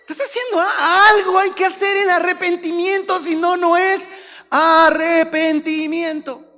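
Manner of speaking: high, loud pulpit cry; fiery preaching. Real, not acted. Preacher exhorts the congregation, loud and high. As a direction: drive the point home to the church.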